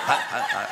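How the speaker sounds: quick mouthed clacks in a row; imitated teeth clacking. Comic telling of Sister Evans's teeth, imitated clacking. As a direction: mimic false teeth clicking together. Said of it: "click and clack together like that".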